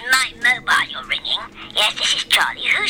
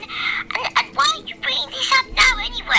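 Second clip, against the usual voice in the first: much higher, fast indignant shout; exasperated outburst; 10 semitones higher than usual. Acted. Charlie snapping at Bert for raising Valentine's, fast and high. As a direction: fire the question back at him.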